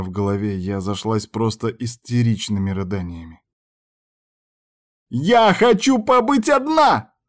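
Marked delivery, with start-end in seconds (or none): 5.1-7.2 high, slow, sobbing scream; hysterical yell. A narrator's reading. Heroine screams at the door, sobbing. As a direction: scream without lifting her head. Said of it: "заорала я".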